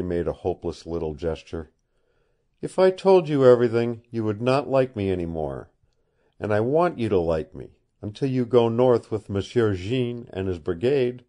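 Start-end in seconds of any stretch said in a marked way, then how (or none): 2.6-11.2 lightly voiced young woman, pitch raised; a hint of an earnest girl pleading. Woman confides to Kent.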